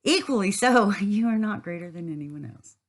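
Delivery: said again clearly. Real, not acted. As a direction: say it again so the back row hears, with a laugh. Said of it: "And in case you didn't hear it".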